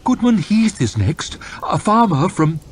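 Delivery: high, disdainful lordly voice; a bored, arrogant official; haughty lord. Acted. Lord chamberlain announcing to his court, disdainful.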